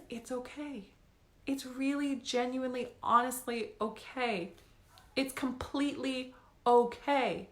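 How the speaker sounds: hushed comfort, every okay drawn out; soft reassurance. Real, not acted. Reassuring viewers about money stress.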